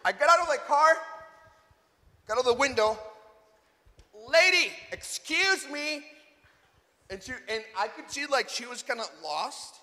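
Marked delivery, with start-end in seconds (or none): 4.1-6.1 calling out. Retold or imitated. Calls to lady in car.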